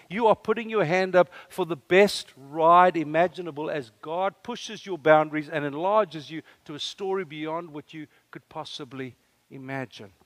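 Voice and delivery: ordinary talk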